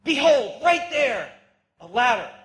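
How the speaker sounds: high, loud "Behold" bursting out; dreamer's breathless wonder; awed exclamation. Acted. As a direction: point at it in amazement. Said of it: "He dreamed".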